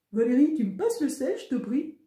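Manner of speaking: mock deep voice. A narrator's reading. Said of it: "demande mon frère d'une grosse voix".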